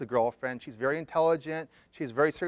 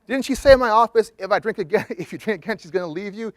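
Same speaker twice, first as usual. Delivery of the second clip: loud, higher voice, half-laughing at himself; drunken shout; 6 semitones higher, 10 dB louder than usual. Retold or imitated. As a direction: blurt it out like a drunk caller on the phone. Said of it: "a drunken Jeremy".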